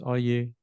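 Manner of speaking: "are you" unstressed and light; weak forms. Shown as a demonstration. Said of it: "They're weak".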